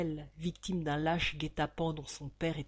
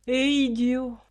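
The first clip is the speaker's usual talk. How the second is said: loud, higher angry snap; louder furious cry; furious outburst; 6 semitones higher, 8 dB louder, slower than usual. Acted. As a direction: spit out the insult. Bonner's fury.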